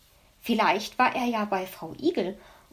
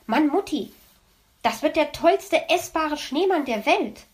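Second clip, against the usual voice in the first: put-on excited child; 4 semitones higher than usual. Hedgehog child calls to mother, bursting with excitement. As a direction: gush like a kid full of ideas. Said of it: "wie Borstel begeistert rief".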